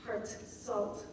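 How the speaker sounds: "Heart salt" as two hard separate hits; harsh stresses. Shown as a demonstration. Teacher showing harshly punctuated words, separated. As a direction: punch "Heart" and "salt" apart. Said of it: "hard to say in a fluid, murmuring way".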